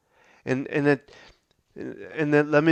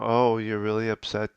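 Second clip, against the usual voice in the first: flat calm, level voice; calm, possibly patronizing tone; calm reply. Shown as a demonstration. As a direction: say it evenly, maybe too calm. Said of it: "a calm".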